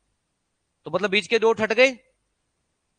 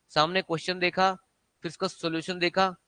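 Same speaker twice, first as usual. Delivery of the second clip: quiet, mocking list of bad study habit; wrong way demo; 4 dB quieter than usual. Shown as a demonstration. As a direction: softly rattle off the wrong routine. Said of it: "ये नहीं।". (गलत तरीके की धीमी नकल)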